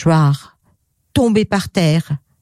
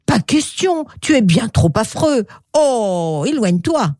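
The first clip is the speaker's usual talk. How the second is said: disgusted rejection; 4 semitones higher than usual. Acted. Les gens repoussent le crocodile.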